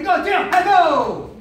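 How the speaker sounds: long, drawn-out high shouted command; drill shout. Real, not acted. Coach demands yelling on count three, drawn-out shout. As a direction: bellow the count to the class.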